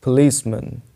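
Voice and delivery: reduced ending in policeman; policeman as "puh-LEES-mun". Shown as a demonstration. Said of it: "ये है पुलिस".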